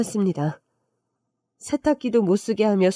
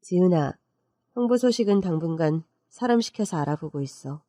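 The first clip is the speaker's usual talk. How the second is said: reassuring aunt; 2 semitones lower than usual. Acted. Aunt telling her niece she is safe now, calm and reassuring. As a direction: calmly reassure a young relative.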